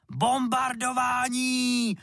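high, drawn-out bawled war cry; bawling. A narrator's reading. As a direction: yell it like a playing bomber. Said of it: "hulákal".

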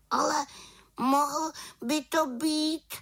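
high, slow, unsure witch; hesitant little witch. Acted. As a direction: ponder it uncertainly. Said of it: "rozpačitě uvažovala malá čarodějnice". (rozpačitá malá čarodějnice)

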